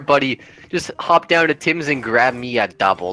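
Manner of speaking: put-on slow, drawn-out Canadian accent; exaggerated slow Canadian accent. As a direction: play the easygoing Canadian, stretched vowels. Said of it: "do a Canadian accent".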